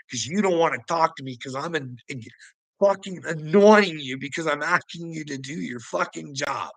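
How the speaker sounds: ordinary talk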